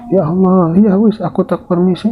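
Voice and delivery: high resigned leave-taking; Nyi Suti giving up. Acted. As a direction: take your leave, defeated.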